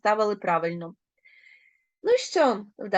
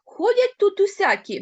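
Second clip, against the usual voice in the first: put-on old man's grumbling line read out higher and louder; old man muttering; 10 semitones higher, 5 dB louder than usual. A narrator's reading. Teacher reading the grandad's grumble, higher and louder. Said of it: "бурмоче дід".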